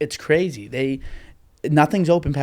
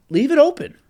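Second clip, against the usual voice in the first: high whiny plea; whining; 13 semitones higher, 7 dB louder than usual. Real, not acted. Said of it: "I sound like a whining bitch".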